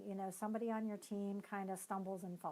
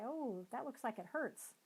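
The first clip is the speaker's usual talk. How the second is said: calm validating parent; 2 semitones higher than usual. Retold or imitated. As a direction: calmly comfort the child and encourage. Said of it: "walk over calmly".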